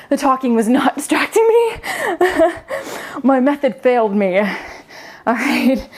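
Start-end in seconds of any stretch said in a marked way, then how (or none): 0.1-4.4 half laughing, half groaning at her own failed plan; laughing through the burn. Real, not acted. Coach admitting the talking failed to distract her, laughing. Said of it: "this burns".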